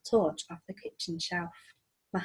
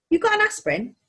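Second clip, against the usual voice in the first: high, grumpy croak; a sick old creature asks again; weary creature voice; 10 semitones higher, 6 dB louder than usual. Acted. Skellig repeats his request.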